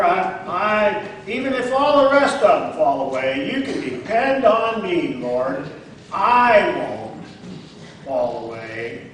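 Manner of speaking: boastful, confident vow with swelling pride; proud. Acted. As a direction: promise it like a proud man sure of himself. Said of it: "he almost sounds kind of proud here".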